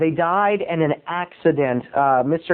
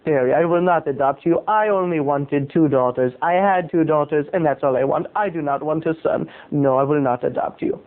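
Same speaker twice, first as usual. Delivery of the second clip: lightly imitated El Salvadorian accent; firm refusal in a mild El Salvadorian accent. Friend's mother explains she wants no son, light El Salvadorian accent. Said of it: "she said in her El Salvadorian accent".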